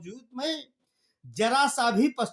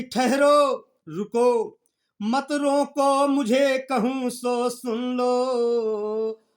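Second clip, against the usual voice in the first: raised voice; commanding call; slower than usual. Acted. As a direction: order them to stop and listen. Kaikeyi stops the assembly.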